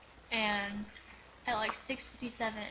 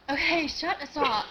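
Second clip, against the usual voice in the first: playful scold; 5 semitones higher, 8 dB louder, slower than usual. Real, not acted. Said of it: "telling friend to stop".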